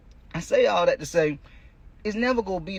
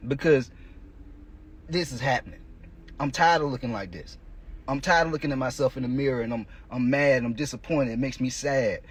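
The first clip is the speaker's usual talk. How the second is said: lower, brooding self-talk; fed-up inner voice; 5 semitones lower than usual. Retold or imitated. To himself in the mirror, lower and brooding. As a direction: mutter it like a man sick of himself.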